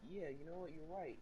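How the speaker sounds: mild mock sarcasm; mock agreement. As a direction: shrug it off sweetly. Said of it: "I'm like".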